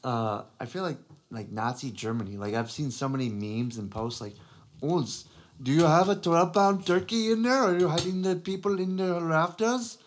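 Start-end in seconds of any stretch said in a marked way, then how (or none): 4.8-10.0 high, loud put-on interrogator; mock interrogator voice. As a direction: bark it like a movie soldier. Mocking meme of wartime interrogation.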